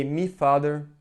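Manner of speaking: "me father" with "my" said as "me"; Scouse "me". Shown as a demonstration. Speaker showing Brazilians how Liverpool locals say it, "me". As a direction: swap "my" for a short "me". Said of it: "here they say".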